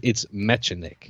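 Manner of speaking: mechanic with a hard K for the CH; corrected pronunciation. Shown as a demonstration. Co-host correcting the host, mechanic with a K sound. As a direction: say mechanic carefully, K sound, not "chan". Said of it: "I think you're mispronouncing it".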